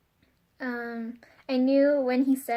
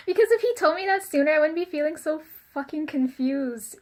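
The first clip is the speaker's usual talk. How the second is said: higher, louder frustrated outburst; frustrated burst; 3 semitones higher, 4 dB louder than usual. Real, not acted. Venting to viewers about the secret, exasperated outburst. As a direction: blurt it out, exasperated.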